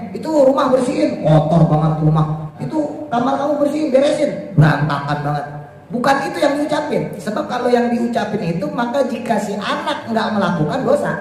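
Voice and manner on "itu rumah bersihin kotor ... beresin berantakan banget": bossy parent order. Retold or imitated. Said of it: "nggak ngomongnya".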